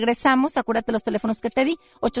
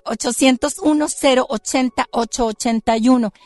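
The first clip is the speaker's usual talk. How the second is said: gravelly gargoyle growl, louder; 3 dB louder than usual. Shown as a demonstration. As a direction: grind out the numbers like stone. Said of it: "con mi voz de gárgola".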